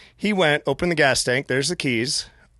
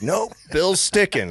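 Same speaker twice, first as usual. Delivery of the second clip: curt refusal; 7 semitones higher, slower than usual. Retold or imitated. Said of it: "And she's like".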